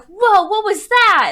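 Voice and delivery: high, loud, stretched-out gasp of wonder; kids' amazed shout. Acted. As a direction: call out in a burst of wonder. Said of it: "the kids are like".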